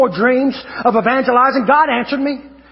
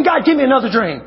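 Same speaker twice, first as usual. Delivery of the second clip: insistent pleading; 5 semitones higher than usual. Retold or imitated. Preacher retelling his prayer for another dream, escalating mock begging. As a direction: re-enact begging, climbing towards a shout.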